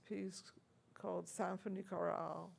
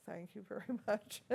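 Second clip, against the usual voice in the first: quick thanks breaking into a laugh; faster than usual. Retold or imitated. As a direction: say it while laughing at the memory. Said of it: "and I said".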